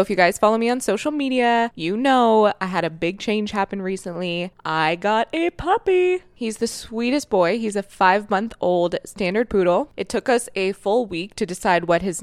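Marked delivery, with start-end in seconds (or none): 4.7-7.6 puppy voice. Real, not acted. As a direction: coo like a dog mom. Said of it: "I'm already in full dog mom puppy voice mode".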